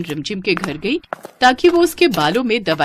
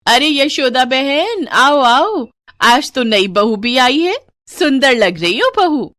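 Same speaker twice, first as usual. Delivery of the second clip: high, drawn-out, singsong welcome; effusive hostess; 6 semitones higher, 4 dB louder, slower than usual. Acted. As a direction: gush over your arriving guests. Voices welcoming woman at gathering.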